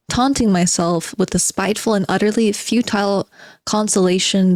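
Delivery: reading a novel aloud with a touch of theatre; dramatic reading. Acted. Streamer reading the novel to chat, dramatic reading. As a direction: give the underground man's monologue its bite.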